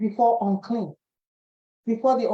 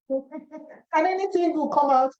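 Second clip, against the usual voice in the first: higher, slow, drawn-out scoff; mocking doubt; 5 semitones higher, slower than usual. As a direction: stretch out "anything" in mock disbelief.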